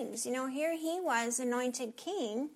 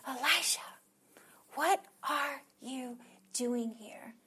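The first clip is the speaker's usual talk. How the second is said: precious, tender whisper; 3 dB quieter than usual. Acted. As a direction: call the name gently, then ask softly. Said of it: "in that precious and tender voice".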